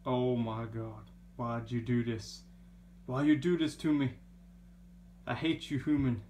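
imitating annoyed cat. Owner voicing the angry cat to its human, mock-aggrieved. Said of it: "She is like, ... she's so mad".

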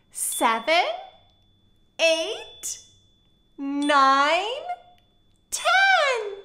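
put-on teaching a child to count. Shown as a demonstration. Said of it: "Can you count with me?".

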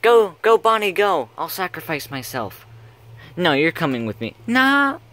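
put-on loud, high British accent. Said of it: "that British accent's".

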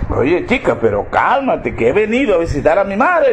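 lightly soothing husband; unbothered, easy reply; husband calmly placating his angry wife. Acted. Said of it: "bastante calmado".

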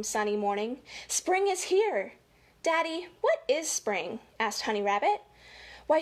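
lively storybook read-aloud; reading to children. Acted. Reading a rabbit story to children, lively storybook voice. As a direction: read it like story time for little kids.

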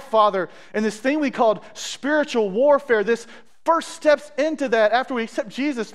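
heartfelt pastoral praying aloud; fervent prayer. Real, not acted. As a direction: plead with God, then soften towards the close. Leads a prayer.

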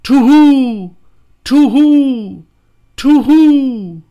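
high, loud owl screech. A narrator's reading. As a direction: shriek it like a night owl. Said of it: "three times screamed".

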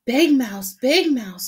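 high calling voice. Acted. Little mouse calling his brother in the night, high call. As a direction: call out for Big Mouse in the dark.

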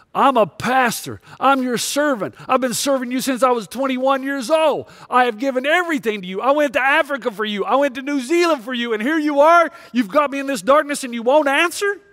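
retold complaint to God. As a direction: pour it out at God, hurt and demanding. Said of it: "And I let God have it".

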